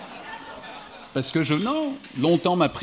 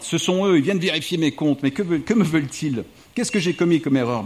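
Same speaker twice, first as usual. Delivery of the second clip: anxious director; 4 semitones higher, 4 dB louder than usual. Acted. Panicked director fears inspectors.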